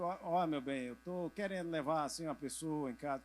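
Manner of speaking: low, soft, careful plea; softly sweet-talking a spouse; timid asking permission. Acted. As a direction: ask your wife meekly. Voices himself asking wife's permission.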